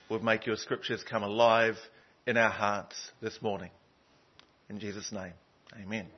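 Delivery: low, measured praying voice; softening gently toward the amen; prayer. Real, not acted. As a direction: pray reverently, pausing between phrases. Leads the congregation in prayer.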